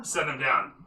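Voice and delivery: ordinary delivery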